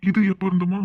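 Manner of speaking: loud, sharp scolding. Acted. Mother scolding daughter for cheeky talk, loud rebuke. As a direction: rebuke her, loud and firm.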